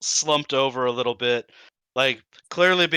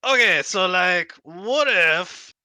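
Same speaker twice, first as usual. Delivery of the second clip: high, slow, wheedling kobold; 6 semitones higher, 4 dB louder, slower than usual. Acted. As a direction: coax them like a sly kobold. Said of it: "the kobold voice is contagious".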